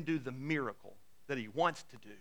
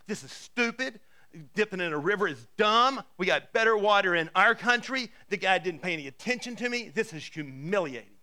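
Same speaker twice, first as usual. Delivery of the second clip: huffy; 3 semitones higher, 4 dB louder than usual. Retold or imitated. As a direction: gripe like an offended big shot. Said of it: "he goes off in a huff".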